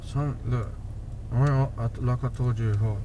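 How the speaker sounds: talking without moving lips; words pushed through clenched teeth; through gritted teeth. Real, not acted. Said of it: "spilling the beans through gritted teeth".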